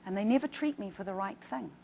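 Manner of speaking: a touch of his fury, retold; patient complaining angrily about the hospital; retold anger. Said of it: "he said".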